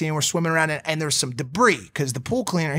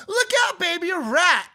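high squeaky fake alarm; mock scare voice; 11 semitones higher than usual. Teasing his girlfriend with a fake rat, high mock alarm. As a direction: pretend to warn her of a rat. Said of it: "And I go".

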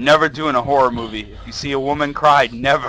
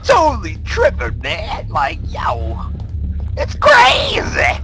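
mocking bad acting; 7 semitones higher, 3 dB louder, slower than usual. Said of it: "that's the worst acting".

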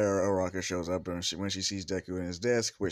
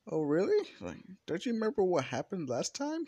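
put-on teasing girl voice; 10 semitones higher than usual.

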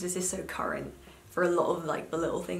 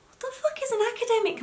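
high, loud, laughing question; laughing disbelief; 4 dB louder, faster than usual. Retold or imitated. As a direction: laugh at the absurd term. Baffled reply, laughing.

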